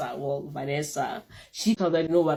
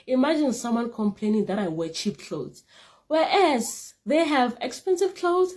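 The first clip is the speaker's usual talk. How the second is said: pitched-up, laughing taunt; mock-innocent jab, higher as it builds; sassy taunt; 5 semitones higher, 3 dB louder than usual. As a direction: throw shade, rising and giggling. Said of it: "this is what I said out loud".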